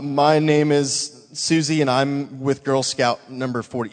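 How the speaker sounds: mock stiff sales pitch. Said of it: "So it's not like".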